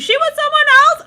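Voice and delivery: startled full-volume yell; shouting. Real, not acted. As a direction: blast the question out. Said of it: "I'm shouting in the microphone".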